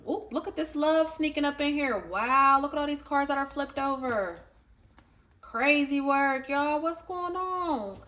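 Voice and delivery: high, delighted gasping over the cards; excited. Real, not acted. Reader delighted at the spread, excited and high. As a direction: squeal over the flipped cards.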